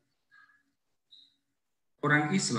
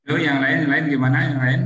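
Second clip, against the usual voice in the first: calling out; 6 semitones higher, 10 dB louder, faster than usual. Real, not acted. Asking other participants about echo.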